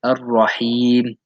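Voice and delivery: "Ar-Rahim" slowly, with the jaw dropped a little on the long i; kasra on ya. Shown as a demonstration. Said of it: "so you drop your jaw a little".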